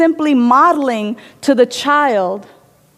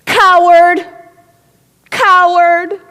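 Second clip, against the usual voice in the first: angry shout; 6 semitones higher, 4 dB louder, slower than usual. Acted. Child and echo trading insults.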